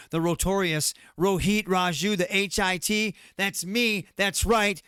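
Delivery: hyped-up promo voice, bragging; wrestling promo. Pretend. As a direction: cut a brash self-hype promo. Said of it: "If you wanna cut a promo right now".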